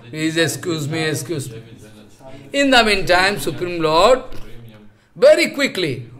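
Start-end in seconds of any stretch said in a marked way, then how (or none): 0.1-1.6 pleading. Retold or imitated. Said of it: "Then the Joy Vijay crying".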